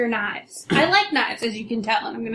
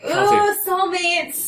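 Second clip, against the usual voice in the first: laughing; 8 semitones higher, 4 dB louder, much slower than usual. Real, not acted. Teasing delighted exclamation.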